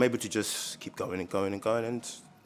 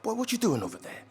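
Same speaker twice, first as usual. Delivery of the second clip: stern dad; 10 semitones higher, 4 dB quieter than usual. Retold or imitated. Dad catches son with gun.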